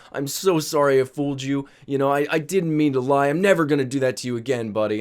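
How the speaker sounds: lightly voiced drunk father, imitated; profusely apologetic dad. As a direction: keep apologizing, milder and running on. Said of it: "he's apologizing profusely again".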